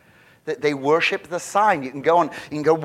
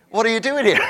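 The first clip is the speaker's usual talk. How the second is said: booming question from God; 6 semitones higher, 4 dB louder, faster than usual. Acted. God's question to Elijah, voiced.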